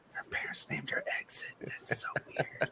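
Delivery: whispered inner thought; whispering. Retold or imitated. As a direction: whisper it to yourself.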